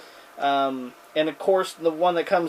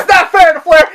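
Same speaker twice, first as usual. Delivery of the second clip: mock whine; 9 semitones higher, 7 dB louder than usual. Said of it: "he was pissed off".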